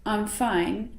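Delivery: soft and dull "I'm fine"; flat tone. Shown as a demonstration. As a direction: sound bored or upset. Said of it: "if somebody said".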